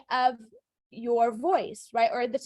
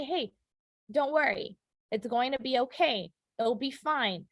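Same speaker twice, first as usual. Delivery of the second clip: gentle, easy comforting tone; reassuring. Shown as a demonstration. Teacher shows words that reassure someone worried, reassuring. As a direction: soothe someone who is worried. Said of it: "These are all words that reassure".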